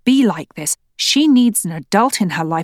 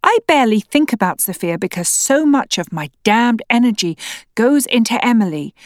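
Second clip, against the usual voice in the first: incredulous anger; 4 semitones higher than usual. Acted. Wife shouting back in quarrel.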